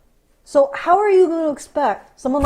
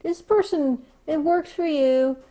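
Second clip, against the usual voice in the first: mock weasel-word quote; 4 semitones higher than usual. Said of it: "They'll use weasel words and say".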